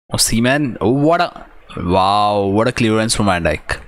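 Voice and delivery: high, excited burst of amazement; excited exclamation. Real, not acted. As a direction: gasp in awe at the clearance. Amazed at a last-ditch clearance.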